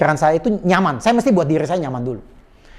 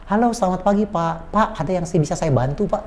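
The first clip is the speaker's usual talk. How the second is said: courteous customer-service voice; polite phone greeting; 4 dB quieter than usual. Shown as a demonstration. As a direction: politely offer help on the phone. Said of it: "Orang ini sopan".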